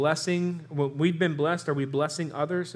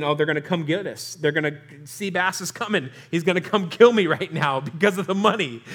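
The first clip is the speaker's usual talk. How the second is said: mock fear; 3 dB louder than usual. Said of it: "They're thinking".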